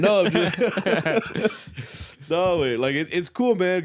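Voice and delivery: talking through laughter, high and loud; laughing. Real, not acted. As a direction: laugh it off while answering. Laughing off friend's teasing.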